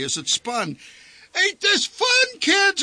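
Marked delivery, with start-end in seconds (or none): 1.3-2.8 very high, slow shout leaning on fun; high hammed-up shout stressing fun; forced cheerful shout. A narrator's reading. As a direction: holler fun over the roar of the ride. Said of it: "shouted the old man".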